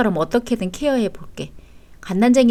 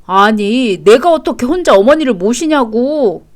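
louder, indignant complaint; exasperated protest; 5 dB louder than usual. Acted. Husband balking at caring for mother alone, exasperated. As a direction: object as if the idea is absurd.

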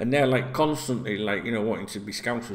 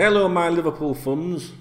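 higher-pitched mock African accent; imitated African accent; 6 semitones higher, 4 dB louder than usual. Vlogger repeating how African fans greet the group, imitated African accent. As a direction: mimic an African fan's greeting, accent lightly put on. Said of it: "That's what they say".

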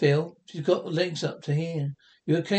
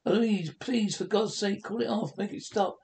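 higher, pleading for his life; desperate pleading; 4 semitones higher than usual. Acted. Jack begs Louise to call off the dog, desperate pleading. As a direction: beg her to call it off.

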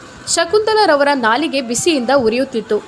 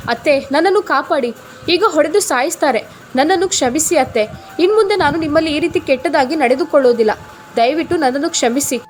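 a touch of panicked pleading, quickening; frightened begging. Acted. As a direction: beg the mother-in-law, lightly scared. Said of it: "ಬೇಡಿಕೊಂಡಳು".

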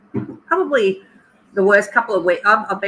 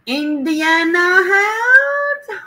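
tearful greeting; 10 semitones higher, much slower than usual. Real, not acted. Greeting viewer emotionally.

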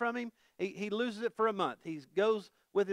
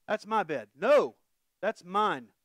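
mock kid squabble; 4 dB louder, slower than usual. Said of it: "kids squabble retold".

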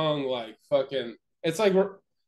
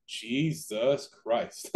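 drawn-out disbelief; 2 semitones lower, 3 dB quieter, much slower than usual. Retold or imitated. Acting out reaction while watching ride.

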